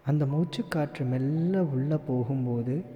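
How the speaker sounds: calm meditation guide with long pauses; guided meditation. Acted. Meditation teacher guiding listeners to relax and follow their breath, guided meditation. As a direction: lead them gently into relaxation, leaving room to breathe.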